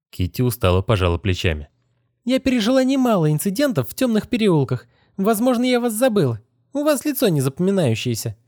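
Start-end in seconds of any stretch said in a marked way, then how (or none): 2.2-8.4 put-on higher girl's voice, challenging; defiant young woman, voiced higher. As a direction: dare him to go on. Kitty answers wearily.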